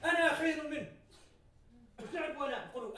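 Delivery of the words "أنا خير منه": loud, arrogant declaration as Iblis; proud Iblis boast. Retold or imitated. Teacher quoting Iblis to class, loud arrogant boast. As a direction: boast it like the devil claiming he is better. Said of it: "قال إبليس لعنة الله عليه".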